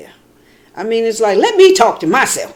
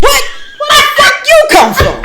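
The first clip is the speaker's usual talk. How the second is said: much higher, startled and laughing; shocked, laughing; 7 dB louder than usual. Retold or imitated. Woman spotting a second dog, high laughing shock. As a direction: squeal it out in startled disbelief.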